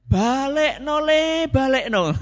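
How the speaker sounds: high, drawn-out "balik no le" as the weary mother; mother sending him back. Retold or imitated. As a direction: play the fed-up mother begging to send him home. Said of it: "ibunya saudara saya ini mengatakan".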